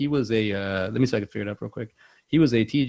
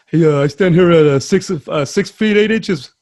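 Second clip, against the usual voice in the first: very loud, raised, lumbering big-man voice; Brad Garrett impression; 6 semitones higher, 12 dB louder than usual. Giant actor announcing his height, badly done Brad Garrett impression. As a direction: boom it out, dragging the last words. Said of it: "But, uh, Brad Garrett's".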